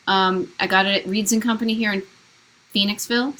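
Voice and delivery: tripping over words; halting, stumbling delivery; stuttering. Real, not acted. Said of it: "I'm kinda stuttering on my words".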